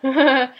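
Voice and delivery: short uneasy giggle; nervous laugh. Real, not acted. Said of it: "That was such a nervous laugh".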